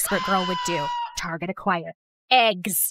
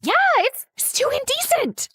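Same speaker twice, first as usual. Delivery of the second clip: flustered and high; 14 semitones higher than usual. Acted. Flustered at shirtless boy.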